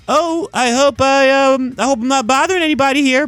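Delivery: high, friendly sweet nice-guy voice; Spider-Man. Retold or imitated. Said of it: "regular old friendly Spider-Man voice when he's like".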